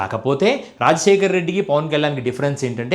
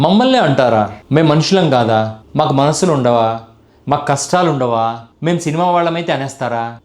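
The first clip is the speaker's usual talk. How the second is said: louder mock-wounded outburst, mimicking a hurt film star; hammed-up aggrieved plea, voice pushed louder; mock whining; 3 semitones lower, 4 dB louder than usual. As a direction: parody of a wounded hero's complaint. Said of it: "ఇవన్నీ ఏడుపు".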